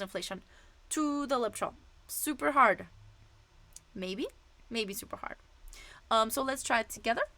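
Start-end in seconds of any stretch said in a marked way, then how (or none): 3.9-5.4 soft unvoiced afterthought; whispered aside. Real, not acted. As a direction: whisper it as a sly correction. Teacher revises the rating, whispered.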